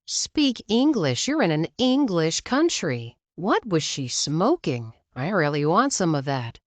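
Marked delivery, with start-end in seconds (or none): 0.1-3.2 slow, higher mock shriek. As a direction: shriek out the order. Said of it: "Entitled mother's still shrieking".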